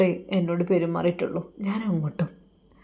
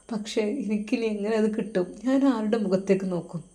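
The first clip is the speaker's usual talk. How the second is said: 1 sad pleading; 3 dB quieter than usual. Acted. Usthad tells mother, heart aching.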